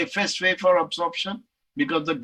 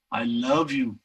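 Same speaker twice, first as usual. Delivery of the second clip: low take; 7 semitones lower, slower than usual. Shown as a demonstration. Telling his girlfriend he loves her, low. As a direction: drop the voice deep for it. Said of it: "six different attempts I made".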